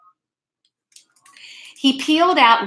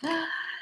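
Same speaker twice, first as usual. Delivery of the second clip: gasp; 7 semitones higher, 13 dB quieter than usual. Acted. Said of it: "What do you see there?".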